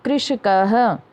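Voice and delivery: कृषकः word by itself, ending in a clear "ha"; model pronunciation. Shown as a demonstration. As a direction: sound the visarga of कृषकः as "ha". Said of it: "उनको भी उच्चारण करना है".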